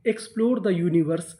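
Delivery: very slow, word by word; teacher reading the full sentence at dictation pace; slow reading aloud. Shown as a demonstration. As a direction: read it out slowly for the class. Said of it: "तो हमारा पूरा sentence क्या बना?".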